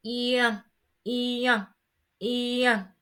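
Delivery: "Ian" as ee gliding into nasal an; French IEN sound. Shown as a demonstration. Teacher modelling -ien for learners, "Ian" as ee plus nasal an. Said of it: "It's kind of like you're saying".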